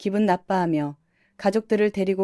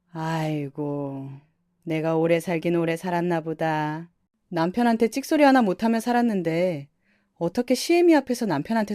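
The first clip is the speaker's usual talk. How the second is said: lamenting mother-in-law. Acted. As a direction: wail it like a put-upon elder.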